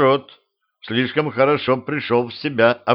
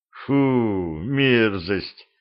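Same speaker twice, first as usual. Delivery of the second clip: disgusted; much slower than usual. Acted. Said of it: "Юноша брезгливо отодвинулся".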